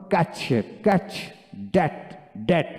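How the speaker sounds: "catch" and "dat" said with the open 'a' of cat; teacher's drill of short 'a' in "catch" and "dat"; short-a pronunciation demo. Shown as a demonstration. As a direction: model "catch, catch, dat, dat" singly, with pauses. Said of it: "জফলা".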